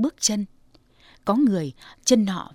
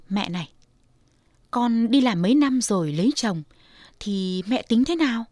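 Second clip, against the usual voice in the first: daughter's question. Acted. Daughter asks mother.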